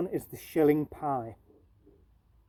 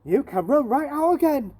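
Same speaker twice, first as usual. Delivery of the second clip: put-on loud, higher shout at a boy; 10 semitones higher, 8 dB louder than usual. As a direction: bark him out of the shop. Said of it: "she shouted to him".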